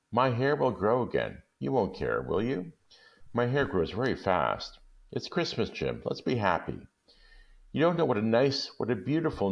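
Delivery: a hint of an anxious young wife begging; Della pleading. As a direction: coax him gently to be happy. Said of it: "she cried".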